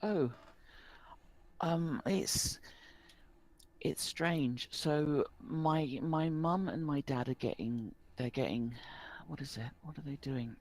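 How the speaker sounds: put-on a worried village boy pleading for help; young rural boy, worried. Rural boy explains his lost sister to the barkeep.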